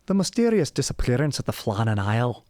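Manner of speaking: hint of a bad Scottish accent; half-hearted Scottish, leaning Irish; terrible Scottish accent. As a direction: lightly put on a dodgy Scottish lilt. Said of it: "do it in a terrible Scottish accent".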